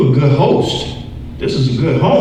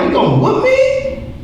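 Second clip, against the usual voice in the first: put-on much higher cheeky kid asking about a spanking; whiny kid. Boy asking his mom if she will whoop him, high and cheeky. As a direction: squeak it out like a caught kid. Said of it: "I'm like".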